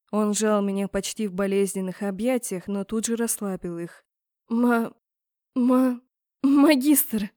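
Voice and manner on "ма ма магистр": stuttered, rising to a loud squeal; stammering squeal. A narrator's reading. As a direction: trips over the word, then shrieks it. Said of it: "взвизгнула я". (заикаясь, с визгом)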